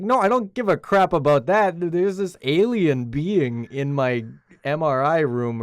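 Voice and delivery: high, loud imitation of a frantic man; mock exasperated outburst. Doctor brushing off girlfriend about an alien, mock exasperated shout. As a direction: shout it as a hammed-up retelling, stretching the end.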